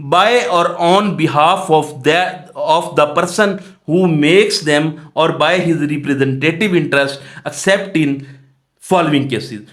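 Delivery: slow, deliberate reading of the legal text; measured, dictation-paced legal reading; slow statute reading. Shown as a demonstration. Reading statute text aloud slowly.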